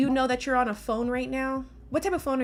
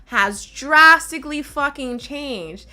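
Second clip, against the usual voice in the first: heated emphatic; 5 dB louder, slower than usual. Real, not acted. Heated rebuttal, slow emphatic.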